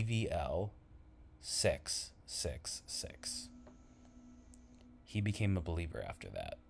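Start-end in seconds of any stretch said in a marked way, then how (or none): 0.0-3.5 slow, soft spooky whisper; eerie whisper. Acted. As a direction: breathe the numbers out slowly. Reading devil license plate.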